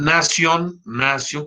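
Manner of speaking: nación stressed on NA, as NA-sion; nación with stress on the first syllable; Latin stress. Shown as a demonstration. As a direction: say nación the Latin way, accent off the final o. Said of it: "no lleva acento porque estas son palabras en latín".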